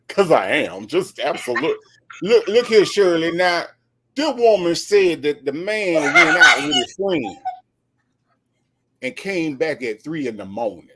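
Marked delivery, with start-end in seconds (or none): 2.2-10.9 Steve Harvey impression. Host lecturing his co-host on men, mock sermon. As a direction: lay down the law to her like a preacher. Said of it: "And then Steve would come in".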